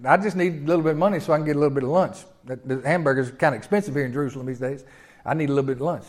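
fast, pleading beggar asking for lunch money; quick, quiet beggar's whine for lunch; beggar's plea. Acted. Preacher voices begging cripple.

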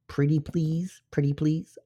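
high-pitched mock begging; playful pleading. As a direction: beg sweetly in a put-on high voice. Playful begging for audio feedback.

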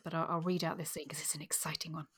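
hushed, breathy aside before reading; whisper. Real, not acted. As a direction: whisper it as if letting them in on a secret. Announces reading a scene.

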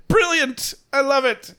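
high, gushing rich-person voice; posh rich people. Retold or imitated. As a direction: rave like a delighted rich snob. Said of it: "the rich people are like".

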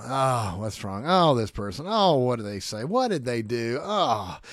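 mock weary groaning at people; exasperated groaning. Preacher acting out frustration with people, exasperated groans. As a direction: groan out each complaint about someone. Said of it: "I groan with people".

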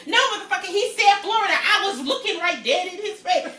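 loud, high, playful fake outrage; mock angry. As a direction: pretend to blow up at your co-host, half laughing. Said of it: "No, I'm just playing".

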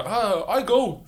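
høy, klagende mock-stemme; stønnende syklist. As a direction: lett imitasjon av en veltet syklist. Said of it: "mente han så bare". (syklisten som veltet klager, lett imitert)

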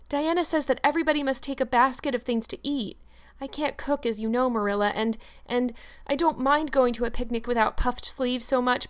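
put-on bubbling child begging to go to the picnic; eager young Anne. Anne worries aloud.

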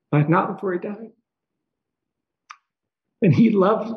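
halting through tears, long pauses to recover; tearful. Real, not acted. Son remembers his late father's love, tearful. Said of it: "cry about this".

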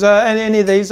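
dwarf shopkeeper voice. Acted. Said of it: "He goes".

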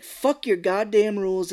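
hammed-up defiance; mock angry. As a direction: snap back at the airline clerk, acted. Retold quarrel with airport lady.

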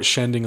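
"shending" with sh in place of s; mimicked sh for s. Co-host puzzled by the word, saying "shending" with sh. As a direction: echo the slurred "shending". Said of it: "What is a shend?".

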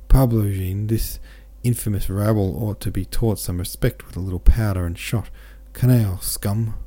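a touch of venom, lightly voiced; hissed contempt. Old man to his son-in-law, mild scornful hiss. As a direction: spit out the insult at the rabble. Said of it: "suddenly hissing out".

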